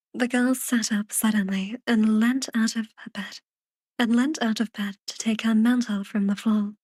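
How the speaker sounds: measured, unhurried audiobook reading; lightly storytelling, phrase by phrase; story narration. A narrator's reading. Reads the story narration aloud.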